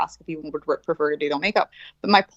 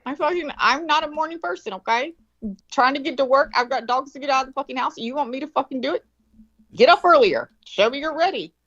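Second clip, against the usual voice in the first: exasperated mom; 7 semitones higher than usual. Retold or imitated. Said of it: "I'm like".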